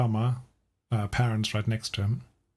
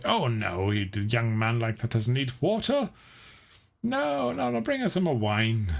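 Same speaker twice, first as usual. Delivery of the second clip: a hint of tipsy revellers insisting; lightly voiced guests demanding wine; mild mock partygoers. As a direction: wave off the water, call for wine. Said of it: "the people around him say".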